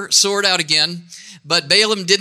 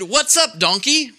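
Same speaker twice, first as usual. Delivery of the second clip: higher-pitched mock scolding; annoyed donkey driver; 7 semitones higher than usual. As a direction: call out the donkey, lightly cross. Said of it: "Balaam was madder than ever".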